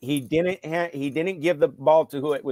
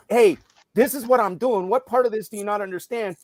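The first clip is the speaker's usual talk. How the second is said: higher-pitched coach's scolding; retold exasperation; 5 semitones higher than usual. Coach walks over to a confused player, retold exasperated scolding. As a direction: re-enact a coach losing patience.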